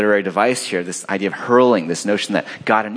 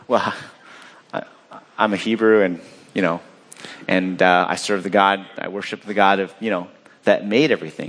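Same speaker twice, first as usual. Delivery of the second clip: halting, slightly lower reply with fillers; hesitant answer; 4 semitones lower than usual. Acted. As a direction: act out a reluctant, stumbling confession. Retelling Jonah's awkward answer to sailors.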